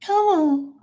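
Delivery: tiny, very high puppet voice, drawn out; Elmo impression. Uncle entertaining his nephews, squeaky puppet impression. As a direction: squeak it slowly like a little furry puppet. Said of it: "who else I used to do is Elmo".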